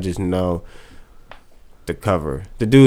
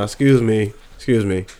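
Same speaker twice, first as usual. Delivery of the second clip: polite phone call. Pretend. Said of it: "calling the bank right now".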